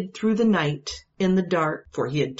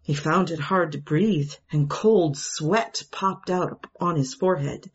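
ordinary delivery, nothing marked

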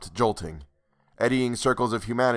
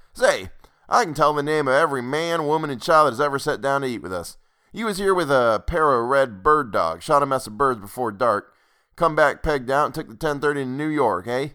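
folksy landlord; 5 semitones higher, 3 dB louder than usual. Acted. Rustic landlord voiced in story.

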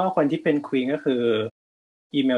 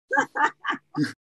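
squealing laugh, much higher; high burst of laughter. Real, not acted. Laughs at the show plugs. (หัวเราะเสียงแหลมสูง)

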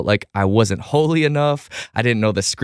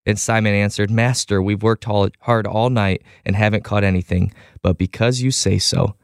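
scripture reading; 2 semitones lower than usual. Acted. Host reading scripture to the listeners, measured and reverent. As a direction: read the passage aloud with steady reverence.

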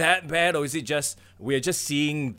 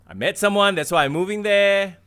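mock romantic reason; 7 semitones higher, 6 dB louder than usual. Imagined reason for moving.

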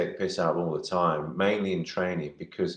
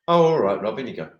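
mock bouncer; 4 dB louder, faster than usual. Bouncer waving Rob through the door, cheerily loud. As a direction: lightly voice the bouncer waving him in.

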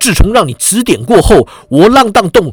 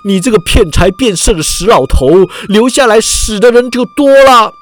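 barking retort. Acted. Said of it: "之前的人喝道".

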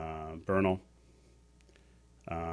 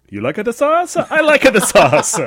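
high, loud, slow sing-song imitation; imitating a child's sketch voice; 16 dB louder, slower than usual. Little kid in a Rome restaurant, high sing-song imitation. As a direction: parrot the silly sketch line. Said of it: "he's like".

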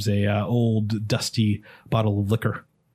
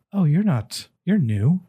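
dwarf noticing strangers, higher voice; dwarf barkeep; 6 semitones higher, slower than usual. Acted. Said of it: "looks over and goes".

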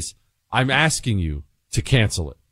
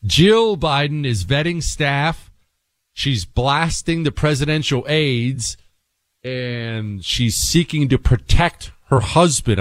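slow dramatic reveal; slower than usual. Real, not acted.

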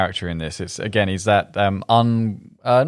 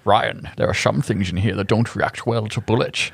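light Scottish accent impression; a hint of a Scottish brogue; Sean Connery Scottish accent; 3 semitones lower than usual. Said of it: "He does it in the Scottish accent".

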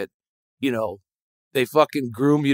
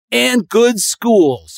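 very slow emphasis; 8 semitones higher, 4 dB louder, much slower than usual. Real, not acted. Drawn-out emphasis.

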